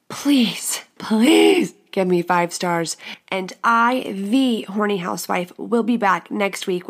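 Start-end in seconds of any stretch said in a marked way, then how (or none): 0.1-3.0 pleading. Real, not acted. Begging for ratings.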